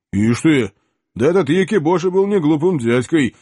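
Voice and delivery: loud, hearty admiration; genuine admiration. Acted. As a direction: marvel at the result. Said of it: "искренне восхитился".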